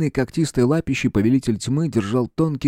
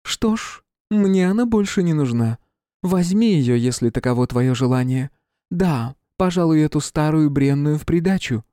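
high, cold, cruel queen voice; icy queen; 6 semitones higher than usual. Acted. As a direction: hand them over with icy disdain. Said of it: "её льдистые слова".

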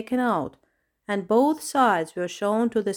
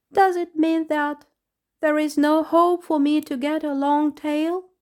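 higher and louder, whiny protest; whining; 8 semitones higher, 5 dB louder than usual. Acted. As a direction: whine like a let-down child. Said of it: "Stop whining".

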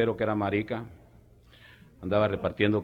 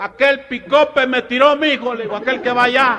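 put-on old country man; 13 semitones higher, 8 dB louder than usual. Tio Chema telling Macabeo which pickup hit him, high and loud. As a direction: groan it out like a banged-up old man.

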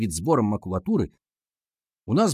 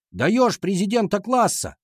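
high, slow rallying cry; cheering shout; 8 semitones higher, slower than usual. A narrator's reading. Class demanding a class president, high rallying cry. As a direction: chant it like a crowd slogan. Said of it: "закричали мы".

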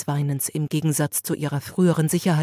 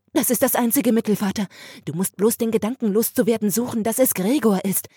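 higher, louder urgent pleading; agitated sister; 6 semitones higher, 3 dB louder than usual. Acted. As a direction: push the father to agree. Sister's agitated plea to father.

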